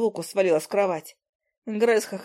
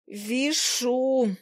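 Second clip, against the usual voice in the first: through gritted teeth; 4 semitones higher than usual. A narrator's reading. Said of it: "процедила я через стиснутую в зубах посудину".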